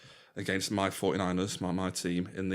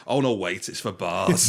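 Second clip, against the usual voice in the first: laughing Homer quote; 6 dB louder than usual. Retold or imitated.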